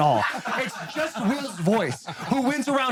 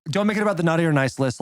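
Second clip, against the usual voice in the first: quick, low-key run-through in his usual way; his own fast talk; 4 semitones lower, faster than usual. Retold or imitated. Friend repeating his advice to Will about encouraging the child, quick and casual. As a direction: rattle it off a little fast. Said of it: "all right, I'll talk the way I talk".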